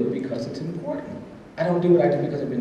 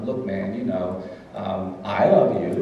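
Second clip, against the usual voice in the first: slow, grudging, lower "I love you"; insincere; 5 semitones lower, slower than usual. Retold or imitated. A boy forced by his mother to say "love", slow and grudging. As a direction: drag out "love" like a kid forced to say it. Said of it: "as insincerely as I possibly could".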